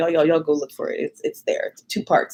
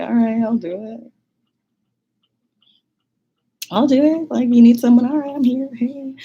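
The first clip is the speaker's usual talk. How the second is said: eager volunteer; 6 semitones higher, 4 dB louder than usual. Retold or imitated. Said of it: "I was like".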